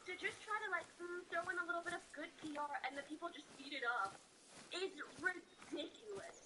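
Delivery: talking around a retainer; words slurred by a retainer; wearing a retainer. Real, not acted. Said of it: "I have my retainer in".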